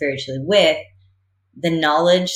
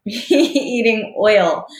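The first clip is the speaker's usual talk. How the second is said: laughing; 7 semitones higher, 6 dB louder, much slower than usual. Real, not acted. Laughs mid-sentence.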